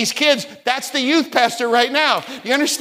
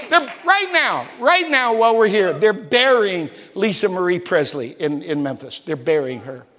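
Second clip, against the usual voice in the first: hushed solemn; 4 semitones lower than usual. Real, not acted. Preacher telling the church of a funeral, hushed and grave. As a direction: let the voice sink as you say it.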